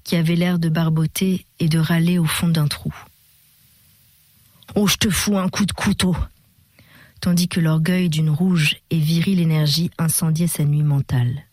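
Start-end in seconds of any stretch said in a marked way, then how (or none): 4.7-6.1 put-on guttural drunk threat. A narrator's reading. Drunk Vévé threatening Augustin, guttural and gurgling. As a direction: growl it up from the bottom of a hole. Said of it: "Il conclut d'une voix brusquement gutturale".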